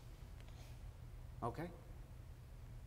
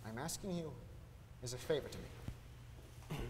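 quiet plea; 4 semitones lower, 9 dB quieter, slower than usual. Acted.

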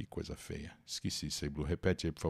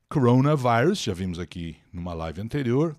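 normal talking voice

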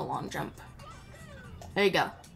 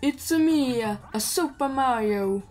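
lightly voiced Mario catchphrase, slower at the end; playful mock Mario greeting; Mario impression; 3 semitones higher than usual. Player imitates Mario introducing himself, light mock Mario voice. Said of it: "He's like".

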